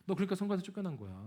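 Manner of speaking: quick, light mocking tease, fast; teasing jab. Preacher imitates sister teasing him, quick and mocking. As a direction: toss off the dig breezily, as if laughing. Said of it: "하면서 웃으면서 얘기해요".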